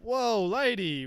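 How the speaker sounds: high, slow, stretched-out whoa; startled backpedal. Retold or imitated. Worker startled by the customer's accusation, slow and high. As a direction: caught off guard, holding up both hands. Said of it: "And I just went".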